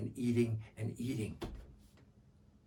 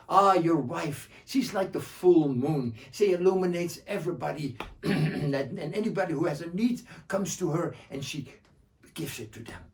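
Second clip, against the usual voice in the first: Joha voice; 3 semitones higher, 5 dB louder than usual. Acted. Joha praises the wife.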